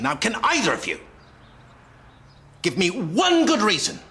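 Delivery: feigned outrage. Pretend. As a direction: play the wronged superior with dramatic pauses. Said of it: "Positively Oscar material".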